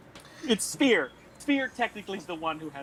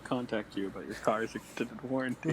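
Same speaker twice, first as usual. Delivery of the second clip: mock robocall; 8 semitones lower than usual. Player jokingly cuts in as a spam caller, mock robocall voice. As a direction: read it like the car warranty robocall.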